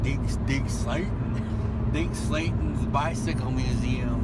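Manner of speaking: slow, grand drawn-out announcing of the name. Pretend. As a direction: read the name like a slow, mock-grand sign. Reading the museum sign aloud.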